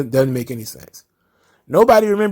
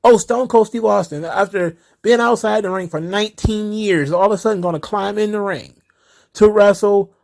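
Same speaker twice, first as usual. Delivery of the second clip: mocking hype; 6 semitones higher than usual. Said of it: "These motherfuckers on the internet".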